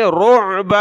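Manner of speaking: रुअबा with ع from the throat; throaty ain. Shown as a demonstration. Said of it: "आइन निकालें गले से".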